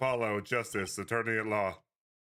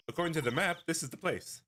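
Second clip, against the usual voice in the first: put-on girl sidekick voice; 6 semitones higher than usual. Voicing the girl partner.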